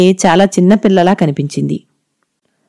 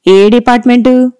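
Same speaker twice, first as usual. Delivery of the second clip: stern, raised warden asking the department; a curt, no-nonsense question from the strict warden; serious warden; 5 semitones higher than usual. A narrator's reading. Warden questioning the new girl, stern and raised. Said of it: "అంది సీరియస్గా".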